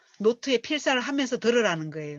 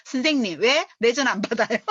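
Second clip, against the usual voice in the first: slightly louder demand with stress on 왜; mock angry confrontation; 3 semitones higher, 4 dB louder than usual. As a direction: push hard on 왜 as if cornering the teacher. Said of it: "한번 물어나 보자 이러면서 찾아가가". (왜에 힘을 주어 다그치는 말투)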